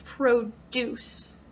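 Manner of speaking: produce stressed on the second syllable, pro-DUCE, slowly; iamb stress. Shown as a demonstration. Teacher repeating produce as an iamb. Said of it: "Produce is an iamb".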